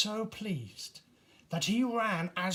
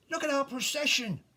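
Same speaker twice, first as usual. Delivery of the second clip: put-on high, fast, gleeful child's call; excited shout; 8 semitones higher, 3 dB louder, faster than usual. Kath shouting to the tinker, thrilled. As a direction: show off the procession with delight. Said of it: "shouted Kath".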